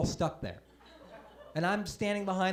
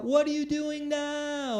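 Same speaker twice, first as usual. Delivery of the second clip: mock yelled question; 8 semitones higher, slower than usual. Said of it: "she yells out".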